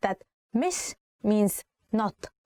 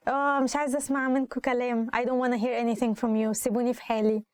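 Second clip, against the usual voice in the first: acted exasperation; 3 semitones higher, much faster than usual. Teacher acting out telling a group to leave her alone, exasperated. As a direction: play someone who has had enough. Acts out wanting to be left alone.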